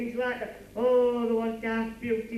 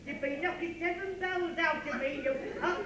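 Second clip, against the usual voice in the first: hammed-up blubbering, pitched up with laughs breaking through; mock crying; 5 semitones higher than usual. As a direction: play a big baby whining through fake tears. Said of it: "What are you crying for?".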